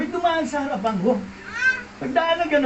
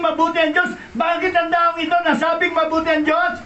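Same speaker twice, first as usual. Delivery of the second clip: preaching shout; 5 semitones higher than usual. Real, not acted. Preaching climax.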